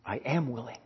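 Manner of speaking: quiet, breaking "I am willing". Acted. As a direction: let the voice crack on the words. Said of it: "his voice broke".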